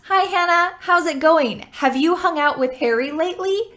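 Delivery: Hannah and Harry with light clear H's; clear H sounds. Shown as a demonstration. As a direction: say the H's gently but clearly. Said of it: "let's practice this sample sentence".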